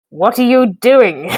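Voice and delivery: slow, swooping theatrical question; Matt Berry. Shown as a demonstration. Player attempts the Laszlo line, drawn-out Matt Berry impression. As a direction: draw it out in a pompous actor's voice. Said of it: "anyone can do Matt Berry like Matt Berry".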